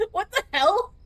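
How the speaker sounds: high, loud startled yelp; shocked what. Real, not acted. Gamer yelling at the elevator that just closed, high startled shout. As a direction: shout it in total disbelief.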